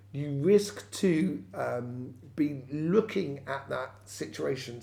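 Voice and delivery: talking around a hair in the mouth; words caught on a stray hair in the mouth. Real, not acted. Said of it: "I've got a hair in my mouth".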